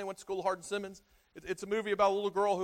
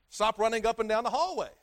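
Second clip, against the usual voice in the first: firm, louder parental warning; scolding my son; 3 semitones higher, 5 dB louder than usual. Retold or imitated. Father scolding his son for running in halls, firm call. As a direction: call it out to the kid down the hall. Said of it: "guess what I tell my son now".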